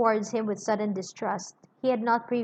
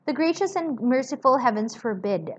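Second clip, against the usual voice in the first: crying out; 4 semitones higher than usual. Acted. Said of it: "cried Miss Pross".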